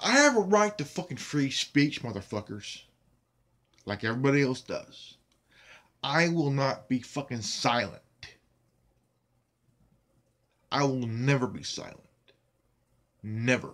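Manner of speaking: very angry, pissed off. Ranting about his videos being taken down, pissed off. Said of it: "I am very goddamn pissed off".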